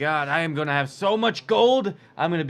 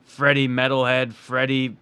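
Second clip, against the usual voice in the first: hammed-up wrestler trash talk, louder on threats; wrestling promo; 3 dB louder than usual. Wrestler calls out Freddie for the tag titles, swaggering. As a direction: cut a promo on your rival, building. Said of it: "Strong words from an inspired man".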